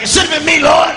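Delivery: high, loud anguished cry; wailing cousin. Retold or imitated. Cousin Al wailing at the Lord over the casket, high and loud.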